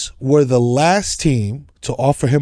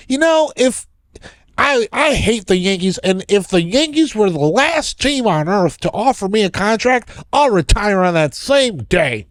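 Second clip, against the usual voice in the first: higher, lightly voiced polite white guy; 6 semitones higher than usual. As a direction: mimic a stiff white guy, mildly. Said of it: "in the white guy way".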